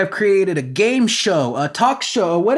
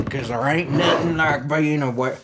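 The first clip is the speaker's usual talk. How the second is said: put-on country accent; 4 semitones lower, 3 dB quieter than usual. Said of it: "I gotta get the country accent for real".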